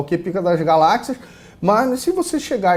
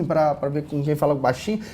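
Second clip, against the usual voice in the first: softer demo of a quiet talker; falando baixinho; 6 dB quieter than usual. Shown as a demonstration. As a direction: pull the volume down. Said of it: "fica assim". (imitando quem fala baixinho)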